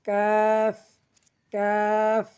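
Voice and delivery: long "কাফ" from just ahead of the tongue root; tongue back to palate, hold "কাফ" steady; forward of tongue root. Shown as a demonstration. Teacher showing learners the letter, "কাফ" drawn out evenly. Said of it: "জিহ্বার গোড়া থেকে একটু আগে".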